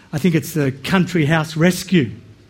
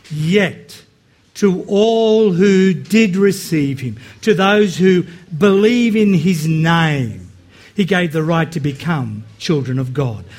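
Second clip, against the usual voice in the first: scripture reading. Acted. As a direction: read the verses with solemn weight. Reads scripture passage aloud.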